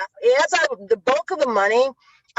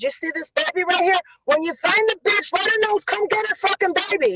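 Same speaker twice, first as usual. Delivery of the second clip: higher, scornful mock rant; imitating dad's contempt for the feds; angry father; 9 semitones higher than usual. Father telling feds about baby.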